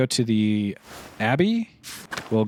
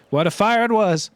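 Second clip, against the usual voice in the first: dramatic exclamation; 11 semitones higher, 7 dB louder than usual. Acted. Old man recalling burning abbey.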